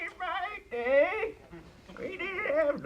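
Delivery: high-pitched screechy modem noise; imitated dial-up modem. Joking about pre-internet days, high mock dial-up screech. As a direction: screech like an old modem connecting.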